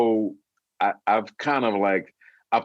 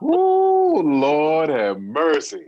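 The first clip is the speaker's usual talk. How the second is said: high whooping ooh, then slow, loud; laughing so hard the voice goes high and loud; laughing exclaim; 4 semitones higher, 5 dB louder, much slower than usual. Real, not acted. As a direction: whoop and drag the words out through laughter. Overcome by laughter.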